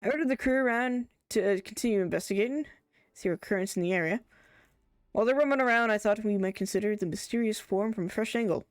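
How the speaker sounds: lightly acted character dialogue; gently performed NPC voices; voicing game characters. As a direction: read the quest lines with a little theatre.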